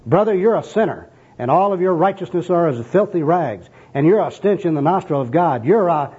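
overzealous gospel worker in full flow; enthusiastic street evangelist. Acted. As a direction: lay into the sinner with zeal. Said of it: "here's the first personal worker".

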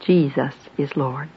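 slow, soft and sincere from the heart. Shown as a demonstration. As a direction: say it slowly, meaning every word. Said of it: "say them again from your heart".

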